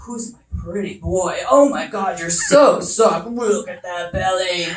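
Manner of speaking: lightly voiced husband doting on the boy dog; mock husband baby talk, slowed; husband cooing at dog. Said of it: "I hear him saying".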